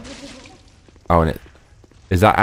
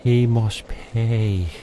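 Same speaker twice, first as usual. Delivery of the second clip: slow, softer brooding vow; muttered vengeance vow; 4 semitones higher, 4 dB quieter, much slower than usual. Pretend. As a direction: mutter the grim oath to yourself. Catchphrase muttered again.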